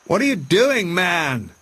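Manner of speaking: high, startled call from Montgomery; Montgomery calling out to Prendick in the sea; cried out. A narrator's reading. Montgomery cries out, high and alarmed. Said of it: "cried Montgomery".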